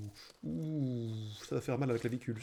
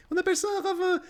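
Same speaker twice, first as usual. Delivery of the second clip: laughing; 12 semitones higher, 3 dB louder, faster than usual. Real, not acted. Laughs at own fall.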